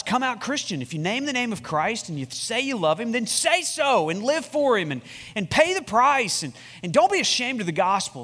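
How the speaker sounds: rising, building call to the congregation; exhorting. Real, not acted. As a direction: press them harder line by line.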